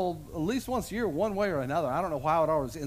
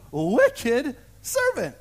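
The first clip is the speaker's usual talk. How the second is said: slow, higher and louder rebuke; king rebuking the unforgiving servant; angry master; 5 semitones higher, 5 dB louder, slower than usual. Acted. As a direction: thunder at the wicked servant. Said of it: "And he said".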